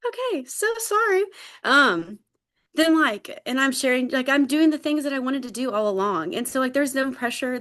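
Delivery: real high, tearful voice; tearful, emotional. Real, not acted. Apologising to friends mid-share, tearfully emotional. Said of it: "Why am I getting emotional?".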